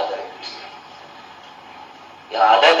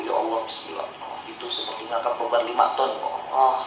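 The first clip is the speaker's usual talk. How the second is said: reluctant grumbling donor; 4 semitones lower, 8 dB quieter than usual. Retold or imitated. Stingy giver groaning at donation.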